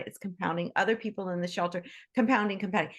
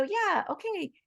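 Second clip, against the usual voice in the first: voicing the animal; 5 semitones higher than usual. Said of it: "They start to go".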